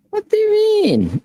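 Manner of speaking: laughing through the question; high, laughing disbelief. Real, not acted.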